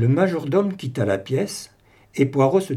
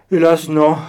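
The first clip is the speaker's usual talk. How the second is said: plain reading voice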